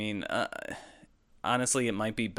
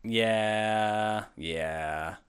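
whispering; 4 dB quieter than usual. Real, not acted. Hushed agreement.

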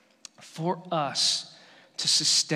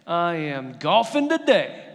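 put-on excited kid; 4 dB louder than usual. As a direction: burst out like a seven-year-old after his best shot. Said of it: "and he goes".

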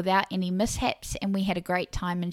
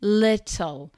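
"Little" set apart and pushed louder; stress on LITTLE; 5 dB louder than usual. Shown as a demonstration. Host underlining a word for listening mothers, LITTLE stressed hard. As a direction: land firmly on "Little", saying it alone. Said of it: "Let me stress that word".

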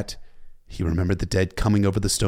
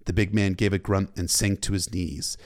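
plain reading voice

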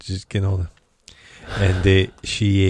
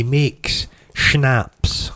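slow and savouring; 4 semitones higher than usual. Real, not acted. Savouring the word schnapps.

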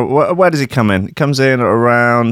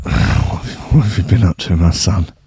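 priest; 4 semitones lower than usual. Acted. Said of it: "the priest's like".

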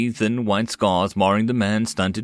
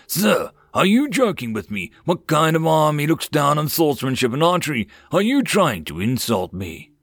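raised-pitch affronted outburst; offended, higher, incredulous questioning; indignant; 7 semitones higher than usual. A narrator's reading. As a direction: demand answers as if insulted. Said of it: "looked like he was about to explode".

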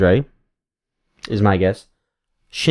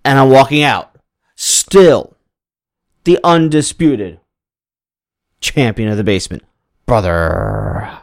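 swagger in with a wrestling promo. Pretend. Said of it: "you have cut a lot of promos".

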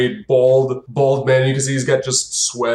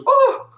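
sudden high yelp; a startled squeak of effort; high-pitched surprised "Ah!"; npc yelp; 4 dB louder than usual. Acted. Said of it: "he goes".

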